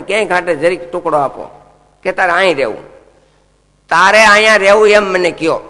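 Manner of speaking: mildly acted desperate plea; pleading Kali. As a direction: beg the king for a place to stay.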